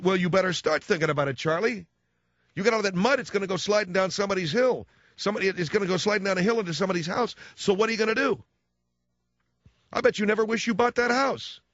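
high, badgering Minnesota accent. Father-in-law scolding about mud and the house, high Minnesota accent. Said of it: "Minnesota accent".

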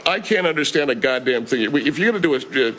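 irritated restaurant-owner character; Ted Bell. Acted. Owner complains to his mumbling chef, mildly exasperated.

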